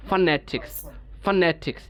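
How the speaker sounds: "ফনেটিক্স" with a clear a after f: fa-NE-tiks; full pronunciation. Shown as a demonstration. Teacher modelling the word for students, "ফনেটিক্স" with full fa. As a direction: keep the vowel in the first syllable of "ফনেটিক্স". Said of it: "তাহলে উচ্চারণ হবে ফনেটিক্স".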